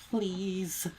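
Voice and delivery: high, strained sobbing "Please"; pleading sob. A narrator's reading. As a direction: beg through tears. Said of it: "she sobs".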